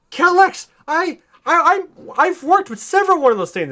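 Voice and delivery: high, loud sneering villain voice; mock Zod taunt. Zod sneering down at Superman. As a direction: jeer at him like a gloating general.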